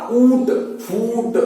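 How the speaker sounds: ऊंट then फूट, each stretched slowly; slow sounding out. Shown as a demonstration. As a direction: stretch each word like a phonics drill. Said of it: "teacher demonstrates word sounding". (धीरे-धीरे उच्चारण)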